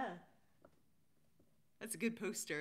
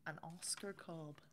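soft whisper of the last name; 3 semitones lower, 6 dB quieter than usual. Acted. Host reading the winners list, dropping to a whisper. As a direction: breathe the name out like a secret.

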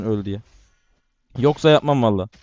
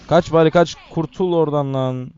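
urgent yell; 2 semitones higher than usual. Real, not acted. Yelling at teammate to flee.

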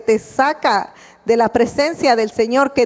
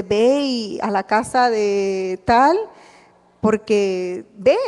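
slow, deliberate divine command; a slow, solemn hint of a divine voice; voice of the Spirit; 3 semitones lower, slower than usual. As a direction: draw out God's instruction slowly.

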